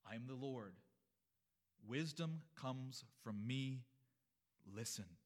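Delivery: lightly voiced God, weighty and slowed in the middle; God speaking. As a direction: declare it with divine authority. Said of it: "It's God speaking".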